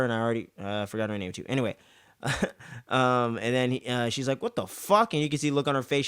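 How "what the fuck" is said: high, sharp outraged question; disgusted shock. Retold or imitated. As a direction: react with disbelief and disgust. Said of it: "disgusted and pissed off".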